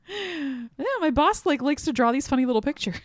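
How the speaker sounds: high, lightly amused mock innocence; oblivious employee. Clueless Hutter chatting about his boss, mock-innocent high voice.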